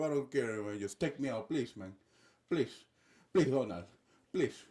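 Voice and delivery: lightly voiced desperate begging; mock pleading in a put-on accent; Nicolás Maduro. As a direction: plead for a way out, man to man. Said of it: "that's Nicolas Maduro right now. Right, just begging Donald".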